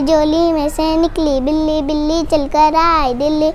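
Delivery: rhythmic schoolchild recital; poem recitation. Real, not acted. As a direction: recite the rhyme line by line to a steady beat. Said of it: "एक नज़म पेश कर रही हूँ". (लय में कविता पाठ)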